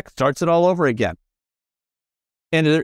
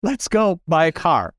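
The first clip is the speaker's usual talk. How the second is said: higher-pitched mock Italian friend; hammed-up Italian accent, voice lifted; bad Italian accent; 6 semitones higher than usual. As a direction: imitate an excited Italian buddy, pitched up. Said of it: "just imagine the Italian accent".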